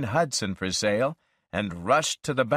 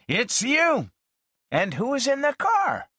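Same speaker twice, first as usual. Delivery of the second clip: lightly excited, higher; glad surprise. A narrator's reading. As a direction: greet an old friend with surprise.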